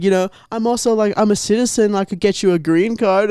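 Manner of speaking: put-on high sweet girl voice; ditzy girl voice. Mimicking the girl tempting the scammer, high voice. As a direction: dangle the offer sweetly. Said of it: "she's like".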